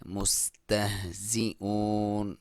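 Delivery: slow, drawn-out tajweed chant; slow Quran recitation. Shown as a demonstration. Teacher reciting the verse for students, slow and drawn out. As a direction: recite it slowly, stretching each vowel. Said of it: "उसकी लंबाई ज़्यादा भी कर सकते हैं".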